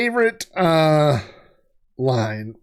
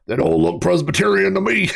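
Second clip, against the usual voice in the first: Doctor Teeth voice; 5 semitones higher than usual. Retold or imitated. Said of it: "but Doctor Teeth's voice this time".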